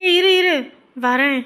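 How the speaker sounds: put-on young man calling to friends so they wait, calling out. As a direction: shout so they don't leave.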